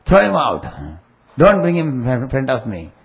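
high, loud outburst, acting out an angry guru; Babaji shouting. Guru orders followers to remove a visitor, shouting. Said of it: "And he shouted".

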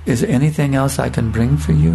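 a hint of a tender, loving host; sweet, tender, loving voice. Sannyasi asking the visiting brahmachari, mildly sweet and loving. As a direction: offer it gently, with warmth. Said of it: "In a very sweet, tender, loving voice".

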